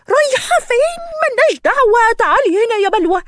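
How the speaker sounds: high, sharp call after her; high exasperated call. Acted. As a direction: yell to stop her from leaving. Shouting after her companion.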